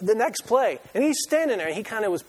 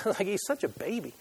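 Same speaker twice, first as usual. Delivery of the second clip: softer, breathy laugh through the words; laughing tease; 2 semitones higher, 4 dB quieter than usual. Acted. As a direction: tease him while laughing under your breath. Teasing aside about Maverick.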